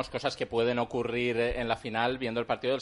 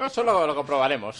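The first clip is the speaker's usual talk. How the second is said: laughing; 5 semitones higher, 7 dB louder than usual. Real, not acted. Laughs at a joke about himself.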